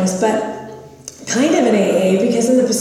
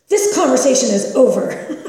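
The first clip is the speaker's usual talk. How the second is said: curt dismissal; 5 semitones higher, 4 dB louder than usual. Retold or imitated. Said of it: "she goes like this".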